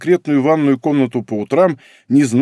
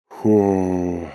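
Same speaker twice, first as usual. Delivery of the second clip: exhaled ho; 5 semitones lower than usual. Acted. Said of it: "выдохнул он".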